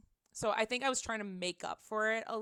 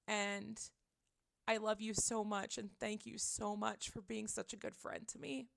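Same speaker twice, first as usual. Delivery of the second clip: soft, sincere retelling, no sobs; measured, quiet heartfelt gratitude, halting between phrases; retold tearful thanks; 8 dB quieter than usual. Retelling thanks to the friend who helped, softly sincere. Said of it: "I was trying to talk while I was bawling my eyes out".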